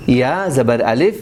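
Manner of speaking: یا زبر الف spelled out slowly; stretched madd. Shown as a demonstration. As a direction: say یا زبر الف drawing out the alif. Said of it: "تھوڑا اور بھی زیادہ کھینچیں گے".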